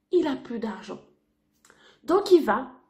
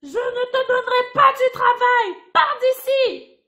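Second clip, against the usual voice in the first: higher and harsh, chasing him away; mean woman refusing; 5 semitones higher than usual. Acted. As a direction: slam the door with your voice.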